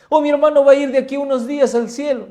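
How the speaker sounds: hammed-up wrong belief; preacher voicing the false idea, loud; mock wrong quote.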